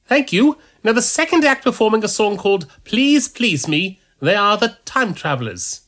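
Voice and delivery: high, loud announcer voice; stage announcer. Acted. Priest announces the contest to the crowd, loud announcer. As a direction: address the whole hall. Priest introducing second act.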